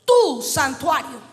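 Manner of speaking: slow, emphatic scripture reading; lectura predicada. Real, not acted. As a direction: preach the verse, stretching key words. Lee el pasaje predicando. (lectura bíblica enfática y pausada)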